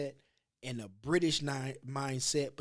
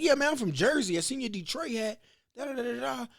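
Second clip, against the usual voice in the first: higher, louder hyped voice; imitating guy; 9 semitones higher, 6 dB louder than usual. Jersey guy explaining he saw the Detroit hat, higher and louder. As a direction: play the eager stranger, high and loud.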